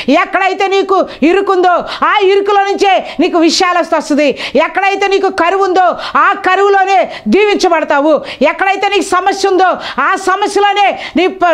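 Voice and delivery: high, driving refrain with shouted peaks; rousing pulpit proclamation; preaching at full force. Acted. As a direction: hammer each promise home to the church.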